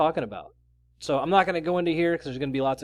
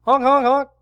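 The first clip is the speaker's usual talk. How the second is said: loud high clown honk; silly clown; 10 semitones higher, 10 dB louder than usual. Pretend. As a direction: honk away like a circus clown. Clown world honking bit.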